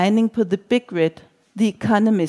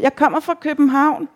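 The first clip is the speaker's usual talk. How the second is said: high-pitched, mildly raised call; shouting; 6 semitones higher than usual. A narrator's reading. Reveller telling the woman where she's from, shouting. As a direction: announce it over the bar noise. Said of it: "råber jeg og ryster på hovedet".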